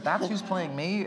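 light Southern drawl on a repeat, slow; mild Southern accent again, drawn out. Retold or imitated. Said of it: "I'm playing her Southern right now".

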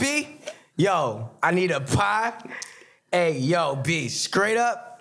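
hammed-up New York slang, drawn out at the end; joking put-on New York accent; mock New York accent. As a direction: do a playful New York impression. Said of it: "y'all wanna hear my New York".

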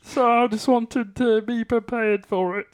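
plummy upper-class frog puppet voice; a frog puppet speaking like English gentry; posh Kermit voice. Pretend. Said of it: "are you doing a Kermit voice".

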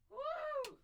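high, loud cheer; excited whoop. Real, not acted. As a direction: whoop with joy. Cheering at shared last band.

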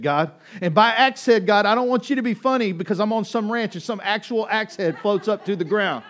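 high, loud, desperate plea to God; loud prayer. Retold or imitated. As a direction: shout the prayer out across the field, pleading. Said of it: "as loud as I am to you".

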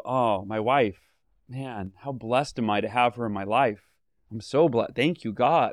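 lightly acted, tender thankfulness; sincere, prayerful wonder; heartfelt gratitude. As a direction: count your blessings with hand on heart. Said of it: "put your hand on your heart".

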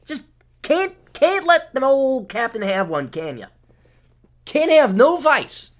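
mock grumbling. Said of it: "I'm like".

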